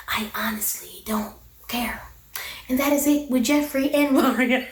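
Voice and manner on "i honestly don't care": breathy whisper, no voice at all; whispered shrug to the camera; whispered aside. Real, not acted. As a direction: drop to a whisper, not caring. Aside whisper about not caring.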